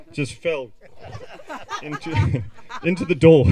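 laughing. Real, not acted. Laughing at funny story.

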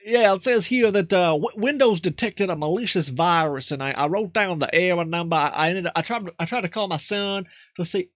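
lightly voiced old country man; Jebediah. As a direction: play a nervous rural grandpa. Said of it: "Jebediah might do".

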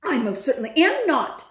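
a touch of shouting, affronted; indignant shout. Acted. Bruno denying to his friend he is a mouse, mild shout. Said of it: "he shouted".

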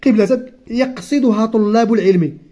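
slow, careful reading of a textbook passage; reading aloud. Acted. Teacher reading the lesson text slowly to the child. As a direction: read each word out slowly for the pupil. Reads the exercise sentence.

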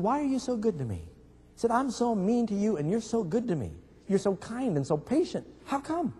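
a touch of tearful bewilderment, acted; mild mock sobbing. Sobbing husband asks his patient wife why, mildly tearful. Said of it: "and he was sobbing".

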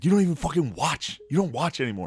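mock someone taking the bait; imitated indignation. Acted football quarrel with friend.

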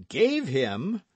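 high, incredulous question; astonished cry. A narrator's reading. D'Artagnan hearing the horse was given away, astonished. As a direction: cry out in disbelief. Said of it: "cried D'Artagnan".

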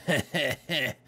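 short chuckle; short laugh. Real, not acted. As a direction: chuckle at your own joke. Laughs at own joke.

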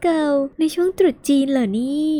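high, slow delighted exclaim; excited. Real, not acted. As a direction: savor the lucky surprise. Delighted at the draw. (ตื่นเต้นดีใจ เสียงสูงช้าๆ)

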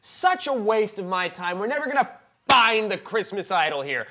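mildly exasperated scolding; lightly voiced Jesus losing patience; a hint of scornful Jesus. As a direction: tell them off as a disgusted judge. Judge playing Jesus berating.

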